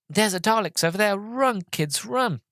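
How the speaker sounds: high, urgent mock alarm; hammed-up urgent warning to flee; playful alarm. Actor playing the Doctor warning kids in a mock alarm. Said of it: "he's like".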